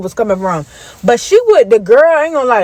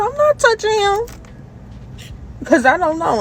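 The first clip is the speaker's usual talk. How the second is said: much higher, squeaky panicked refusal; scared refusal; 10 semitones higher, 6 dB quieter than usual. Retold or imitated. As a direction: back away from it in fright.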